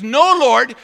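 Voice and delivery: high, loud refusal; Peter refusing. Retold or imitated. Preacher voicing Peter telling God no, loud. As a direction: flatly refuse the Lord. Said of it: "He says".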